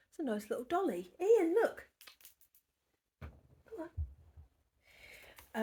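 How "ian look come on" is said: much higher, louder call to Ian; calling Ian to come and look. Real, not acted. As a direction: call him over brightly.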